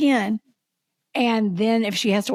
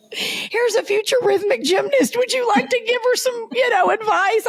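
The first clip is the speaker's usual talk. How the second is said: mock presenter; 12 semitones higher than usual. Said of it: "imagined Bart introducing her".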